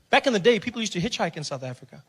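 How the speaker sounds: usual speaking voice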